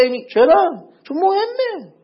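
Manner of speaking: ordinary talk, nothing marked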